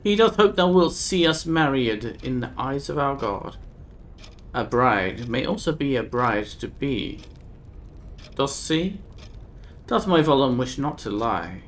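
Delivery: a hint of a grieving old woman, archaic; lightly voiced old woman. Old Nika telling the stranger of her dead daughter, lightly grave.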